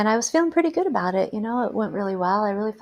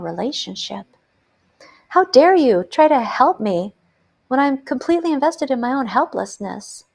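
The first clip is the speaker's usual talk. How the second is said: indignant outrage. Retold or imitated. To the social worker, building indignant outrage. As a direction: hurl each how dare you at her. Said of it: "I was really saying".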